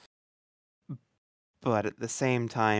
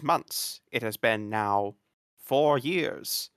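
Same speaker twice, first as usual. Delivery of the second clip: lightly done formal news read; newscaster voice. Retold or imitated. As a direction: announce it like a TV anchor. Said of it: "I like your newscaster voice".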